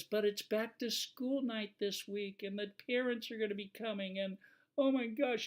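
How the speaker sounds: high, panicky mock teacher voice; flustered teacher. Teacher pleads with the fire inspector, high and panicky. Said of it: "And she says".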